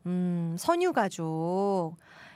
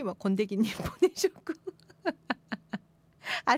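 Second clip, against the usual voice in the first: ordinary talk, nothing marked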